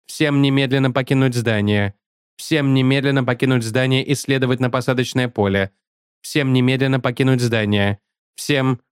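stiff, harsh robotic announcement. Acted. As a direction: read it like a rusty machine. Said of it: "Послышался резкий голос робота".

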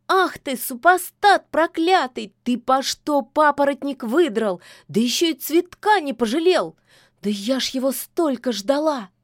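high, loud furious scolding. A narrator's reading. The witch chases Koschei with a broom, loud and furious. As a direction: rage at him while chasing.

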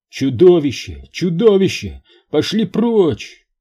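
high, loud panicked radio reports; panicked shouting. Acted. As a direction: scream in terror over the radio. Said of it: "панические рапорты, испуганный крик".

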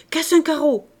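high, loud barked order; thundering shout. A narrator's reading. Father ordering his younger daughter, thundering shout. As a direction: fire off the command angrily. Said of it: "lui cria d'une voix tonnante".

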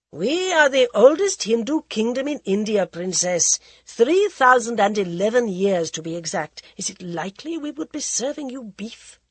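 cool, mocking aristocrat voice; mocking prince. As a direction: sneer it like a bored royal. Prince Pratap speaks at dinner.

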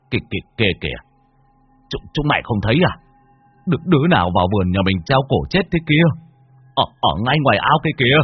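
fast, stuttering, mildly frightened; lightly voiced scared old man stumbling over words; a hint of stammering fear. Terrified father stammers. (run hoảng, nói lắp)

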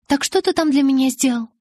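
high, put-on eager curiosity; forced enthusiasm. A narrator's reading. Bella tries to distract Jacob with his gift, forced enthusiasm. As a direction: feign keen interest, pitch lifted. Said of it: "Вымученный энтузиазм в голосе".

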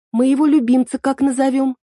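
put-on smooth things over in a high girlish tone; conciliatory girl. A narrator's reading. Эль asks about naming her pet, high and conciliatory. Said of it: "примирительно спросила девушка".

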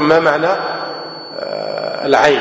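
يمد الكلمات ببطء كمن يسأل طلابه; سؤال المعلم بصوت منخفض وبطيء جدا; سؤال ممطوط ببطء شديد. Shown as a demonstration. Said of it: "أقول لكم". (سؤال المعلم للطلاب بمد بطيء جدا)

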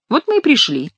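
high, mock-tearful whine; put-on weepy penitent. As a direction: lament it high, as if near tears. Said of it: "слезливым тоном отозвался Шико".

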